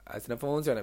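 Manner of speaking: a sing-song regional tune on "A veces no funciona"; a hint of hometown accent on the line; slipped into a regional lilt. Real, not acted. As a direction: let the local accent creep into "A veces no funciona". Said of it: "me salió la tonada".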